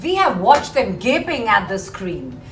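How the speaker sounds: emphatic verse reading, building in volume; poem recitation. Acted. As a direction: recite it with relish, stretching the final words loud and slow. Reads the poem aloud to class.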